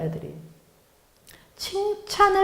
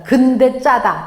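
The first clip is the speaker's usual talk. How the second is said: 근데 slowed and louder, a sting after praise; stress on 근데; 5 dB louder, slower than usual. Retold or imitated. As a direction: lean hard on 근데, then a dry 짜다. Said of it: "근데 요걸 붙이면 안 된다". (근데를 느리고 세게 강조)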